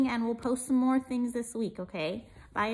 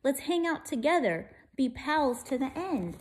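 peeping mouse; 3 semitones higher than usual. Acted. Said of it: "Mouse peeped".

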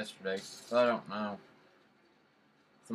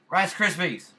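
loud, higher yell of Rice Krispies; shouted catchphrase; 6 semitones higher, 8 dB louder than usual. Pretend. Gamer shouting his running joke mid-game, loudly.

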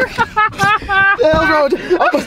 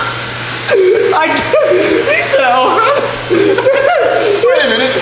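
high, loud words broken by laughter; can't stop laughing; real laughing fit; laughing hard; 7 semitones higher, 5 dB louder, much slower than usual. Real, not acted.

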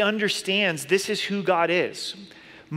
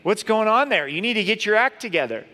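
judgmental; 4 semitones higher, 3 dB louder than usual. Retold or imitated. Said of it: "I'm like".

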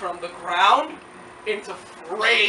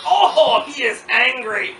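excited exclaim; 3 semitones higher, 9 dB louder, slower than usual. Retold or imitated. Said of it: "It was like".

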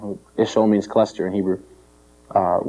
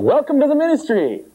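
higher, giggling punchline; laughing comeback; 13 semitones higher than usual. Pretend. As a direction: toss it off with a laugh at complainers. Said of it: "tell everybody when they complain".

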